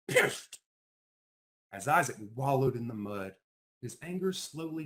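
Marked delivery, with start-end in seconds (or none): 0.1-0.6 hissed under breath; whispered. Acted. Isaac fuming to himself, whispered. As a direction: spit it out in a whisper. Muttered angrily, unvoiced.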